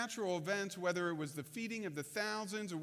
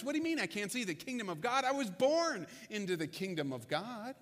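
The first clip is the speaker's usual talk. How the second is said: fast, exasperated disbelief; a touch of indignant Nicodemus; incredulous protest. Retold or imitated. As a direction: rattle it off, baffled and offended. Nicodemus protests being excluded.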